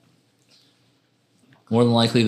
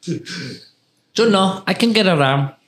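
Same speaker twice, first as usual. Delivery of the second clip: mock voice; 7 semitones higher, much slower than usual. Mocking friend's accent.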